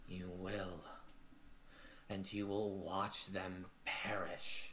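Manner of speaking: soft, slow hushed promise; eerie whisper. Acted. Mother whispering a vow of revenge to her daughter, hushed. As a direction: breathe it like a dark prophecy.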